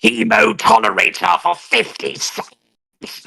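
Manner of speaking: slow possessed rasp; slow demon voice; Exorcist demon voice. Acted. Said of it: "in the Ashton voice".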